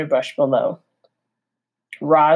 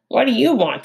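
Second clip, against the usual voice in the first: scowling; 7 semitones higher, faster than usual. Acted. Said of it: "the fox scowled".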